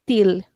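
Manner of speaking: til with hard t and final L; European Portuguese pronunciation. Shown as a demonstration. Teacher gives European name, til with L sounded. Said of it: "in European Portuguese".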